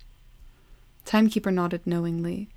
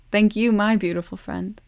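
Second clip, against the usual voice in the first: joyful echo; 2 semitones higher, 6 dB louder than usual. A narrator's reading. Timekeeper echoes Love's call.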